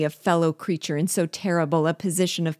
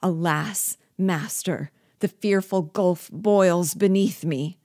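broken with fear; 2 semitones higher, 3 dB louder than usual. Acted. Hanging dwarf begs his master for rescue, fearful. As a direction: beg for your life from the abyss. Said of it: "in a voice broken with fear".

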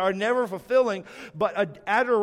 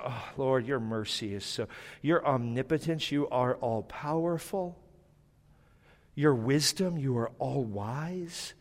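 adoring prayer; 6 semitones lower than usual. Shown as a demonstration. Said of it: "Can't we just go".

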